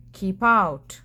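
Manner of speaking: grumpy cactus yelling keep out; yelled. Acted. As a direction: shove the words at the intruder.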